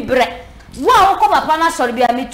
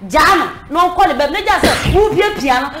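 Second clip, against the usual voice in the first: shouted plea. Real, not acted. Pleading that the mother release him.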